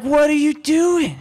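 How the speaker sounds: high, drawn-out demand; acted exasperated questioning. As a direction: stretch the question in disbelief. Acted confrontation with the intruder.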